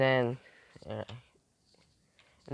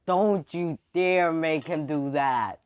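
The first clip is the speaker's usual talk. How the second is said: slow, drawn-out warning, pitched up a little; indignant warning; 3 semitones higher, 4 dB louder, slower than usual. Acted. Character objecting to the mind control trick, indignant warning. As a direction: warn him off, stretching it out.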